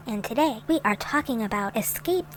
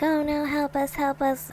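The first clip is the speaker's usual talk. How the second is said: higher mock plea for help; lightly hammed-up captive whimper; imitated crying plea; 6 semitones higher than usual. Vlogger imitates tied-up, gagged family pleading for help, mock crying. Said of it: "crying and mumbling and being like".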